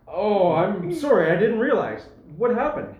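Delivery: sympathetic. Acted. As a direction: offer condolences with the pitch lifted. Constable hears of a death.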